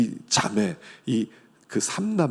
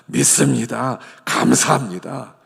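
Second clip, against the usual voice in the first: 믿습니다 감사합니다 said louder, firm; louder declaration; 6 dB louder than usual. Shown as a demonstration. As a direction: proclaim it out loud with conviction. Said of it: "하여간 믿습니다예요". (크게 선포하듯)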